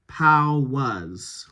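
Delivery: "Powers" with the R dropped, ending "pow-uhz"; soft R. Shown as a demonstration. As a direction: soften the R in "Powers" almost away. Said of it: "Let's soften the R there".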